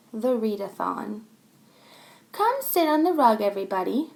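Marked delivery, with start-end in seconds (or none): 2.3-4.1 higher, brighter teacher call; teacher calling class. Acted. Teacher calls the children to the rug, lightly voiced. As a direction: gather the class onto the rug. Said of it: "said our teacher".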